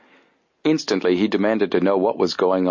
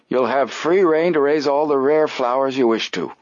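put-on high, formal old man voice; stiff old gentleman; 6 semitones higher than usual. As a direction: announce it like a stuffy old man. Applegate voiced.

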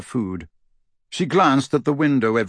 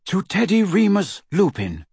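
high, proclaimed toast; 8 semitones higher than usual. A narrator's reading. Lupin toasting his newborn son, proudly proclaimed. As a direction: raise a glass and proclaim it. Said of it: "raised them high in a toast".

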